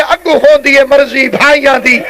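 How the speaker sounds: imitated grieving recitation; retold lament. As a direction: stretch each phrase into a preacher's mourning cadence. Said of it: "بی بی فرمیندی ہے".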